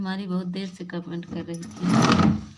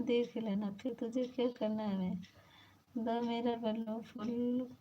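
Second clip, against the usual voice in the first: squeaky put-on voice; 4 semitones higher, 5 dB quieter than usual.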